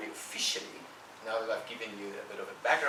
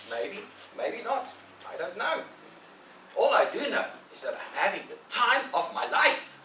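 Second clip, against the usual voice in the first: sly Tom; 11 semitones higher, 5 dB louder than usual. Acted. Tom baiting Ben about loving the work, coy and sly. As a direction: play it cool and sly.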